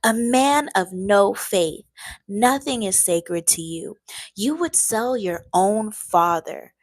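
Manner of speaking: loud, slow angry emperor; a hint of raging emperor; angry tirade. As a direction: spit out the insults. Napoleon's tirade voiced.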